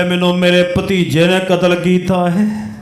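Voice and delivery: a hint of a corpse speaking in monotone; risen murdered uncle. Murdered uncle sits up and names his killer, level monotone.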